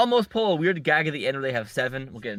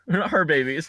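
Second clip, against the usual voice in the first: laughing correction; 3 semitones higher, 3 dB louder than usual. Real, not acted. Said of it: "like, her, her siblings".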